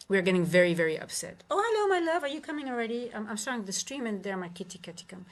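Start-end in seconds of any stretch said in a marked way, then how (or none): 1.5-3.1 pet talk. Real, not acted. Streamer greeting her cat in high, doting pet talk. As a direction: coo at her kitty in a high voice.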